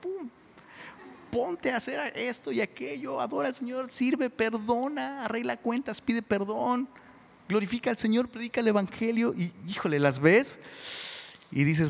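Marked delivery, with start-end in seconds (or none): 0.0-9.3 put-on exhorting older women. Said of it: "se enfocan así".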